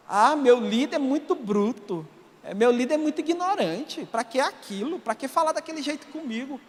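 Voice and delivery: lightly whiny mock complaint; mock whining. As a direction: imitate a church member whimpering over a tough leader. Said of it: "você fica com mimimi, fica chorando". (choramingo de deboche)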